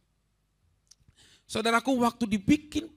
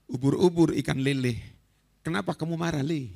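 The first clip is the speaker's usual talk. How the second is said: teasing father; 5 semitones lower than usual. Retold or imitated. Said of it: "ayahnya datang kepada dia".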